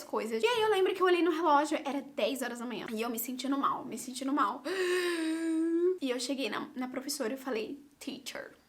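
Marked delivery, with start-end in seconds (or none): 4.7-5.9 queasy gasp. Retold or imitated. Student feeling ill during the test, queasy gasp. Retelling feeling sick in class. 8.0-8.5 soft, whispered appeal; feeble whisper. Retold or imitated. Sick student asking teacher for help, feeble whisper. Timidly calling the professor while ill.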